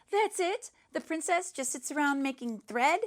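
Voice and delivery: indignant surprise. Acted. Girl objects to the ending.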